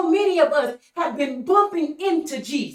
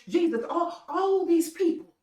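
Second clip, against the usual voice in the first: disciples protesting; 4 semitones higher than usual. Retold or imitated. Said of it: "The disciples said".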